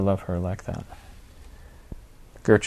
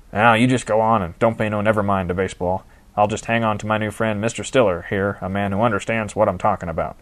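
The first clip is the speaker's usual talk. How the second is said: put-on cackling old manager; 4 dB louder than usual. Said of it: "D G cackled".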